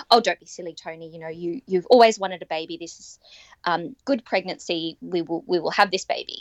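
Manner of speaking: light imitation of a Russian accent; a touch of the doctor's Russian accent, reassuring. Obstetrician reassures the unsure mother, lightly mimicked Russian accent. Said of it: "she said in her Russian accent".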